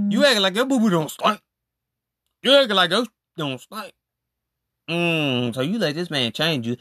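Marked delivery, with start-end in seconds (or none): 0.1-3.9 a hint of sing-song mockery, higher; lightly sung taunt. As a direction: tease her like a playground chant.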